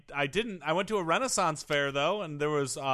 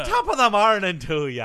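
put-on Irish accent; 5 dB louder than usual. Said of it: "we're going Irish then".

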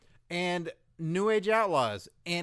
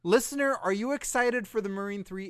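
high, loud squeaky dummy voice; shrill dummy hyping a DVD; squeaky ventriloquist dummy; 8 semitones higher, 7 dB louder than usual. Pretend. Squeaky puppet voice pitching DVD.

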